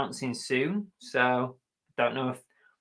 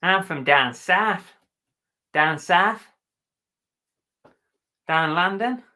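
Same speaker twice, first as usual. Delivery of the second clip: slow, raised-pitch mock Cockney; Cockney accent; 4 semitones higher, 4 dB louder, slower than usual. Imitating folk from down south, Cockney accent. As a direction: draw out broad Cockney vowels. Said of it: "the Cockneys is".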